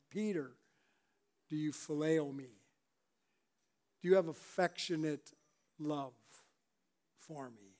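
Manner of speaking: soft, halting plea with pauses; quiet, searching appeal to a friend; tender questioning. Acted. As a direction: ask it gently, letting the last words sink away. Acts Jesus asking Peter tenderly.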